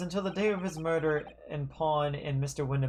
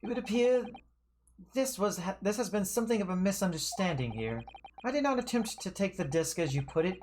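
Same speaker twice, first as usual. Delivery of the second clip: lightly voiced haughty witness, higher-pitched excuse; evasive witness; 4 semitones higher than usual. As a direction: play a pompous witness explaining himself away. Witness excuses himself in game.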